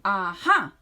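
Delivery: loud burst of discovery; shouted aha. Acted. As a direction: leap on the idea. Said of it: "she shouted with a jump".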